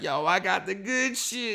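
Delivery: put-on a lightly done Jamaican accent. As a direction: sell it like a chill Jamaican guy. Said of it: "He's a fucking white Jamaican guy".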